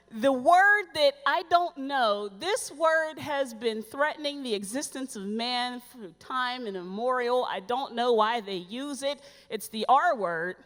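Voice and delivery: slow, mock-solemn build-up; slow retold Kyle. Agent slowly easing into the word relax, mock solemn. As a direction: drag it out like a grave warning. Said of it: "Kyle says to me".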